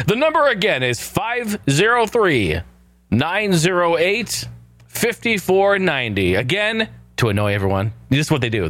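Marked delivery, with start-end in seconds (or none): 0.1-6.4 slow higher shopping channel read of the number; mock infomercial announcer; QVC pitchman. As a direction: sell the number like a TV host. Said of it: "I feel like I'm on Q V C".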